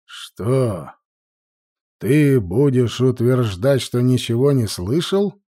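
booming. A narrator's reading. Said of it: "громогласно произнёс колдун".

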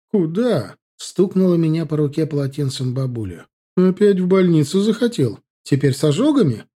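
grandma scolding him for grabbing the hot kettle. A narrator's reading. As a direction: stop him sharply, then scold.

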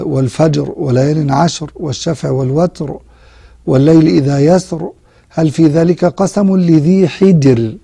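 a lightly chanted verse from the Quran; gentle tajweed recitation. Acted.

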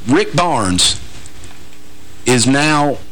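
normal talking voice

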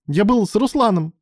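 high, loud blurt; sudden loud confession. A narrator's reading. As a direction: blurt it out all at once. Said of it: "выпалил Алан".

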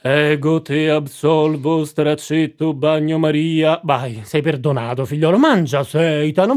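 mock priest. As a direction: intone it like a lightly hammed-up priest. Priest giving absolution.

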